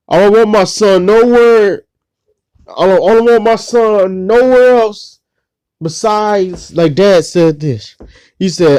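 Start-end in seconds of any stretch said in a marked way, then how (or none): 0.1-6.7 firm insistence. Retold or imitated. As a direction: insist firmly on the hospital. Dad insisting to police.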